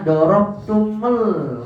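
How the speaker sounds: DOROBTUMUL with the m run straight into a held l; impossible unlinked reading. Shown as a demonstration. Teacher showing it cannot be read, DOROBTUMUL jammed at m-l. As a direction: jam the m of DOROBTUMUL against the final l. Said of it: "Gak mungkin kita dapat membacanya".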